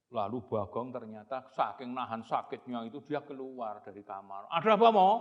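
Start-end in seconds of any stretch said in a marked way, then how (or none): 4.5-5.1 grumpy. Acted. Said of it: "sambil marah-marah".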